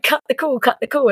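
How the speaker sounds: high, urgent mock plea; frantic mimed urging to hang up; a friend urging her to hang up, high and frantic; urgent hiss. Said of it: "like, gesturing".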